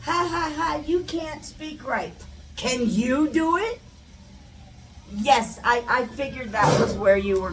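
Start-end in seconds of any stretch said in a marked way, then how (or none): 0.0-3.8 mock "ha, ha" jeer; teasing, sarcastic needling; ironic taunt. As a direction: poke fun, then end on a rising challenge. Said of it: "now that's the irony of it".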